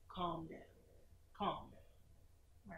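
low, soft calm down; soothing command. Acted. Jesus speaking gently to the sea, soothing. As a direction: hush the storm gently.

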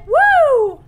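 loud high whoop of triumph; excited whoop. Real, not acted. Gamer whooping after cracking the safe. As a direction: let out a big victorious woo.

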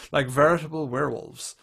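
put-on understated dramatic read of an old report. Shown as a demonstration. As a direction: read it out with mild solemnity. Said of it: "I'll just do it, like, dramatically".

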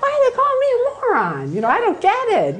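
mock-hurt, laughing as you ask; laughing, mock bewildered; laughing disbelief. Laughing at being called moron.

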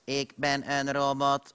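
slow twangy robot voice. Shown as a demonstration. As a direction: speak like a machine with twang. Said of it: "Dat is twang".

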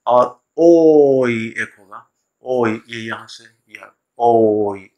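ओई drawn out slowly as two sounds; a slow diphthong ओई, shown to the class. Shown as a demonstration. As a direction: glide slowly from ओ to ई. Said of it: "दो sound है अलग अलग".

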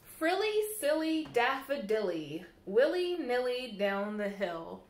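lilting, sing-song storybook reading; bouncy picture-book read-aloud; reading to children. Acted. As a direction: read the rhymes to little ones at storytime.

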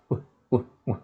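short 우 with lips pushed together; rounded lips. Shown as a demonstration. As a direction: purse the lips for a brief 우. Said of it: "일단 입술을 모아주고요". (입술을 모아서 짧게 우)

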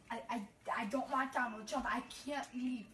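imitating a girl with a Mexican accent; lightly put-on Mexican accent. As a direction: quote her in a rough mock Mexican accent. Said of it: "Why are you putting on that racist accent?".

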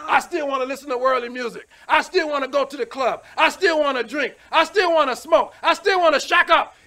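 mocking a worldly sinner. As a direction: build up the excuses mockingly. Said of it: "hold on to stupid stuff".

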